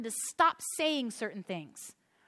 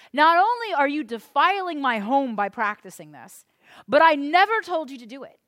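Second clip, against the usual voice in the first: voice of God; 5 semitones higher, 6 dB louder than usual. Acted. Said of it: "God even says here".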